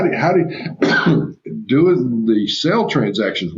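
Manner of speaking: throat irritated from dust, coughing. Real, not acted. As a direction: speak through a lingering cough. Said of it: "I keep coughing a little bit".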